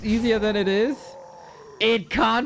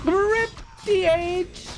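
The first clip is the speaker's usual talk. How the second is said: excited; 12 semitones higher, much slower than usual. Real, not acted. Hero dies in the game.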